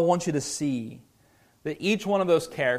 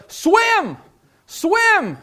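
high, loud mock yell from the shore; yelling swim; 7 dB louder than usual. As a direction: shout it at someone drowning. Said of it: "we're just yelling".

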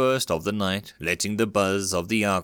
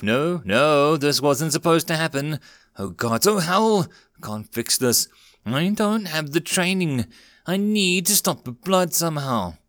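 panicked babble; 6 semitones higher than usual. Acted. Ricky over bleeding Alex, panicked high babble. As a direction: babble in panic, can't think straight. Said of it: "Ricky's voice became more panicked".

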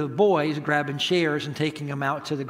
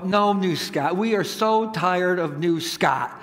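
weary, drawn-out complaint, imitating the kids; disgusted kids; slower than usual. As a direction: groan it slowly like fed-up children. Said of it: "roll their eyes in disgust".

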